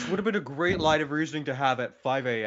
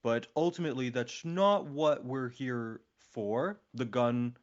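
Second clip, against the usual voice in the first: talking weirdly. Real, not acted. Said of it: "I'm talking really weirdly right now".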